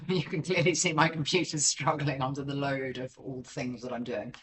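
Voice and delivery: dry sarcasm with a laugh; mock-cheerful sarcastic remark. Real, not acted. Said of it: "that was sarcastic".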